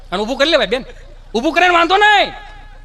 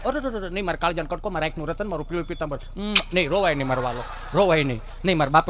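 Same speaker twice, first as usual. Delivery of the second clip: softer, cooing comfort; soothing mother; 4 semitones lower, 4 dB quieter than usual. Acted. Mother softly comforts her fallen son, a hint of cooing. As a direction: hush the little one gently.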